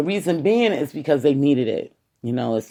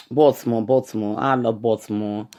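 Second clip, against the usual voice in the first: New York "Baltimore" with a clear T; New York accent; 3 semitones lower than usual. Real, not acted. Podcaster tells listeners he loves the city, New York accent. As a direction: say Baltimore like a New Yorker, T sounded. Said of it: "saying it with the New York accent".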